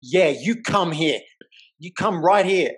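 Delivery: daring him to step up; mock challenge. Angry driver daring him to come closer, loud. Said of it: "she's like".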